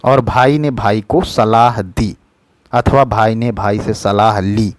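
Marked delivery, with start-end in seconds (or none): 0.2-2.2 slow, deliberate model sentence; a teacher slowly dictating a correct sentence; slow careful reading. Shown as a demonstration. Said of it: "ऐसा होगा". 3.0-4.7 slow, deliberate model sentence; a teacher slowly dictating a correct sentence; slow careful reading. Shown as a demonstration. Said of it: "ऐसा होगा".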